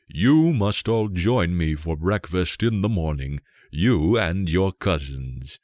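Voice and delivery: a lightly voiced king booming his praise; hearty king. King invites guests.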